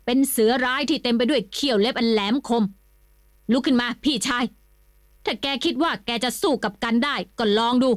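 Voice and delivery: a lightly voiced cocky warrior, taunting with a laugh; gloating victor. Triphop mocks the fallen Kimnuan, cocky taunting. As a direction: brag and dare him to get up.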